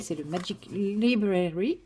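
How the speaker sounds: nom anglais dit lentement avec un accent anglais appuyé; accent anglais forcé, lentement; English accent. Real, not acted. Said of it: "avec mon magnifique accent". (accent anglais exagéré, avec autodérision)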